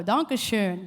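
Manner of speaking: "Dankeschön" with a rounded German ö; German umlaut. Shown as a demonstration. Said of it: "two dots on top of the O".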